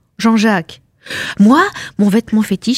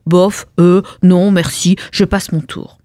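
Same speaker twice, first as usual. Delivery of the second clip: offhand refusal; 3 semitones lower than usual. Acted. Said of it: "Je lui ai dit".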